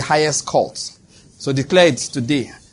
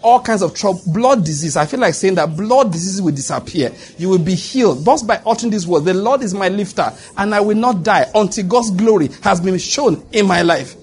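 rising preaching fervor; 3 semitones higher than usual. Acted. Pastor urging the congregation toward healing, fervent preaching. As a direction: climb into full preaching fire. Preacher builds over music.

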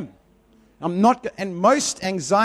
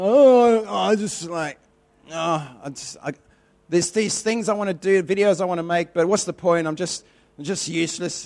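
mock self-pity.

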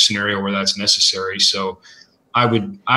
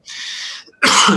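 choking cough. Real, not acted. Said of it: "I'm choking on this delicious Chicago water".

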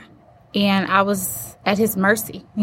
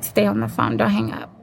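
much lower, urgent friend's voice; friend on the phone; 12 semitones lower than usual. Retold or imitated. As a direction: sound like the calm-but-urgent friend on the line. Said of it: "And he's like".

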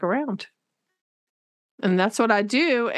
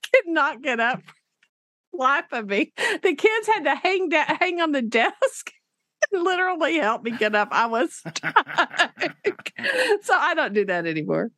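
higher, laughing through the words; laughing through story; 7 semitones higher than usual. Real, not acted. Teacher telling how kids helped her up, laughing. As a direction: giggle while admitting she was stuck.

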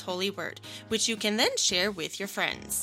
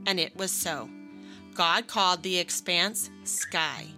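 put-on Bible reading to children. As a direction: read it like a children's Bible story. Reads Genesis to children.

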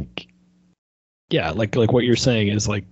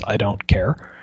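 mildly curt, imitated brush-off; dismissive tone; 2 semitones lower, slower than usual. Imitating an actor brushing off a fan's question, mildly dismissive. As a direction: brush it off with a touch of disdain. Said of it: "say it in that tone".

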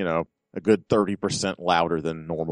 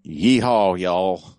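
mock cowboy accent; much slower than usual. Joke answer to request for accent.

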